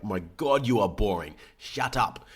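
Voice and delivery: annoyed. Pretend. Imagined listener losing patience.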